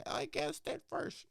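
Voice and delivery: high whispered mock boast, slow; mocking the audience. Mocking listeners who claim credit, in a high whispered mock voice. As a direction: sneer it like a smug know-it-all. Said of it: "comes out here and say".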